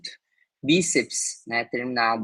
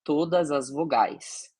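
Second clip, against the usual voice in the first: slow emphasis; 3 semitones higher, slower than usual. Shown as a demonstration. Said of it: "a gente vai apagar".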